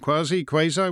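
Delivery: "quasi, quasi" as kwah-zee, then kway-zye; two pronunciations of QUASI. Shown as a demonstration. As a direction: try "quasi" both ways, AH-EE then AY-EYE. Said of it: "which is the quasi-British way to say it".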